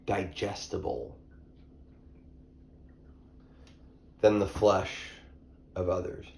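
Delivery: talking through a mouthful of orange; words around a bite of food; mouth full. Real, not acted. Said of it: "with my mouth full".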